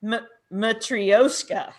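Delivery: slow, careful "Matryoshka"; careful repetition. Shown as a demonstration. Host repeating the pronunciation they just heard, careful "Matryoshka". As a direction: sound out "Matryoshka" slowly after the recording. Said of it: "listen really carefully".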